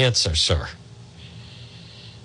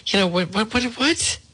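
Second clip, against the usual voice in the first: incredulous; 12 semitones higher than usual. Real, not acted. Outraged disbelief at headline.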